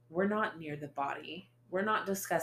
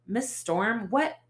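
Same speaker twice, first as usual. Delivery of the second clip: high, loud startled what; rising alarmed call; detective arriving, surprised and loud; alarmed question; 6 semitones higher, 7 dB louder, slower than usual. Acted.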